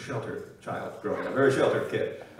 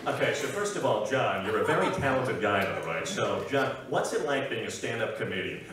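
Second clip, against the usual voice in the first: Howard Stern impression; 4 semitones lower, 4 dB quieter than usual. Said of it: "I'm gonna simulate it for you".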